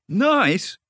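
high, emphatic, earnest declaration; solemn conviction. A narrator's reading. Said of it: "said the water rat solemnly".

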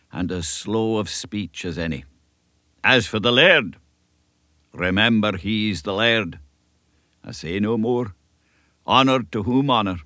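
lightly voiced elderly Scottish minister, earnest; a kindly country minister giving counsel; old Scots minister. Minister advising young Davy, a light Scots earnestness.

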